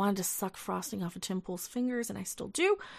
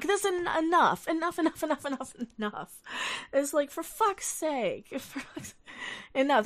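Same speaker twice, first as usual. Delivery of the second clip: fed up; 4 semitones higher than usual. Real, not acted. Fed-up outburst, repeated enough.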